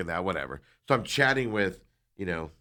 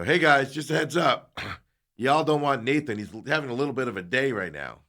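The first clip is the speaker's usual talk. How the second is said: retold heads-up; 5 semitones higher than usual. Customer warns the others in line, mock-public heads-up. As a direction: announce a warning to the line, raised pitch.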